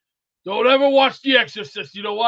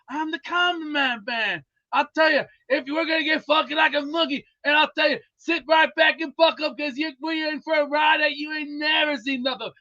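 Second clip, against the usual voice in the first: imitating Dusty Rhodes; 5 semitones higher than usual. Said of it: "Dusty's funny, too, especially".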